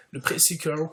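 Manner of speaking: "le Pre-Sequel" with a slight English accent; light English accent. Shown as a demonstration. Gamer showing off his English after the States, light English accent. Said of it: "j'ai un petit accent anglais".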